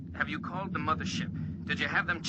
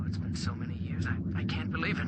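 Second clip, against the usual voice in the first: faint, breathy words over a fading link; overwhelmed, half-lost in static; distant radio voice; 4 semitones lower than usual. Acted. Commander overwhelmed hearing his lost love on the radio.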